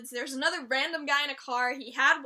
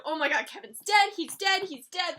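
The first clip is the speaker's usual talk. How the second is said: loud panicked oh my god; retold panic; 2 semitones higher, 5 dB louder than usual. Vlogger retelling her panic when Kevin died, loud. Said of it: "I was like".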